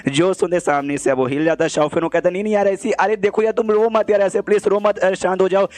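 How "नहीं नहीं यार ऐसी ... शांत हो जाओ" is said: higher, hurried pleading to calm her. Acted. Man begging crying girl to stop, higher pleading. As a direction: soothe her, voice raised in pitch.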